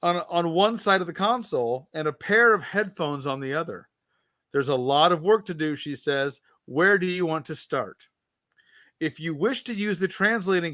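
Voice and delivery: measured read-aloud narration, voicing the captain's lines lightly; story narration. Host reading a Star Trek gamebook to co-host, storyteller narration. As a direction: read the adventure to the listener like an audiobook.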